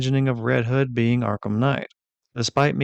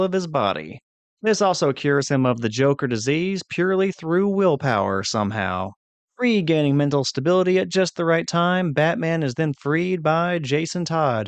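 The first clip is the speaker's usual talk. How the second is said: high-energy recap announcer, pitched up. Acted. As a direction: hype it like a trailer narrator. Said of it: "this high energy announcer voice".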